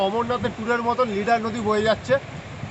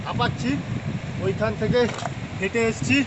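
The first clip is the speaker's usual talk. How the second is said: out of breath; 4 dB quieter than usual. Real, not acted. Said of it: "একটু হাঁপাচ্ছি".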